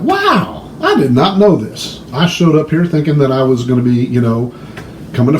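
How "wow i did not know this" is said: wow jumps way up high in surprise; a wide-eyed tourist's discovery; gasping wonder at the news; amazed. Retold or imitated.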